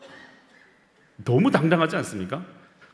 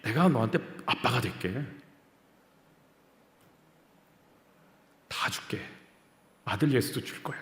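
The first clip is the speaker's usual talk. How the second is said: soft, low, gentle father voice; tender fatherly promise; 5 semitones lower, 6 dB quieter than usual. Retold or imitated. Preacher voices God promising his child everything, tenderly.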